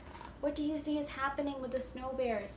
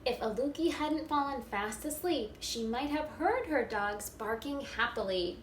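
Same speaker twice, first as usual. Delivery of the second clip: put-on expressive read-aloud for young children; storybook reading. A narrator's reading. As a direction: read it like story time for a first-grade class. Reading picture book aloud.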